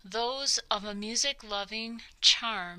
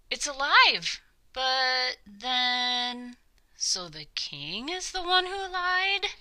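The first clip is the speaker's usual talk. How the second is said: astonished crowd; 5 semitones higher, 4 dB louder than usual. Acted. Crowd realises king lied.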